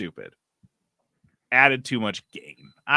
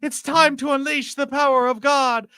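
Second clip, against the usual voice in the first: TikTok AI voice; 12 semitones higher, 4 dB louder than usual. Retold or imitated. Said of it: "That sounds like the TikTok voice".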